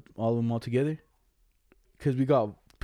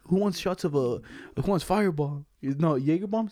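frat bro; 4 semitones higher than usual. Retold or imitated. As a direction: hype up the crowd, bro. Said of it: "And then he's like".

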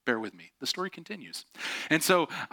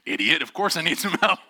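mock exasperation; 5 semitones higher, 4 dB louder than usual. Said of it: "I'm like".

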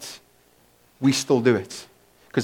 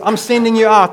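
loud, high, hammed-up coach voice; rally the troops like a cheesy motivator; mock upbeat announcement; pep-talk Jesus; 8 semitones higher, 9 dB louder than usual. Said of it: "worst motivational talk Jesus ever gave".

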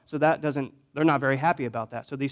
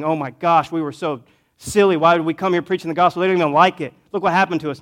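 louder hammed-up complaint; mock moaning and groaning; 2 semitones higher, 5 dB louder than usual. Imagined prisoners regretting their preaching, mock groaning. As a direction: grumble in a run of mock protests. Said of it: "They're not moaning and groaning".

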